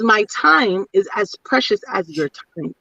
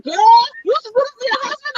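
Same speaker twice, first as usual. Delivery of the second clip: imitating cousin; 11 semitones higher, much faster than usual. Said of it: "She's like".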